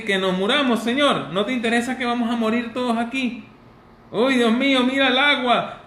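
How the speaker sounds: high, loud frantic pleading; panicked plea. Acted. Disciples begging sleeping Jesus in the storm, high frantic plea. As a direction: beg him to wake up as the boat sinks.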